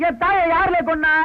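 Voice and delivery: angry demand. Acted. Son grabs the villain to demand who killed his mother, high angry pleading. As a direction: force the answer out of him, pitch up.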